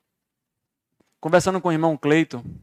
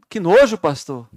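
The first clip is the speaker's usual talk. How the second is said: imitating a shocked listener; disgusted; 4 dB louder, slower than usual. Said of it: "Você deve falar assim".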